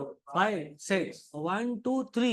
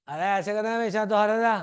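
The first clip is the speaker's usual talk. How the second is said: mock Tirth yelling; 4 dB louder than usual. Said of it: "वो तीर्थ चिल्लाता है बस".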